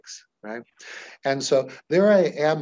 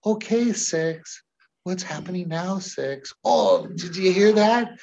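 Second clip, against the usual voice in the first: put-on higher, slow, kid-friendly voice; talking to a child; 4 semitones higher than usual. Shown as a demonstration. Hypnotist addressing client's six-year-old self, childlike tone. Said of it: "I changed".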